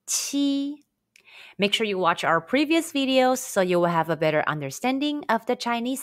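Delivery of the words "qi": qi with a strong puff of breath; "qi" said like cheese with lips spread; "qi" as Mandarin q plus i. Shown as a demonstration. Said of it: "the initial consonant".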